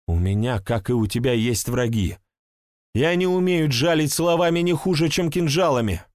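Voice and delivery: pleading woman. Acted. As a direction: beg him to believe her. Woman answering about enemies.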